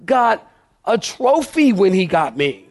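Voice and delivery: a hint of a smug boaster; lightly mock the self-satisfied bragger; boastful braggart. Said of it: "You would tell people".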